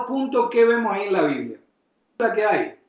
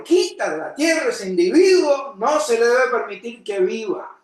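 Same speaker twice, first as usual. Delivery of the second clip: raised voices. Retold or imitated. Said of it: "Alzaron su voz y dijeron".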